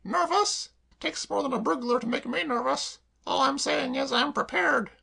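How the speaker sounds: high, loud indignant echo. Acted. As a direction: bristle at the word. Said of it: "replied Claire indignantly".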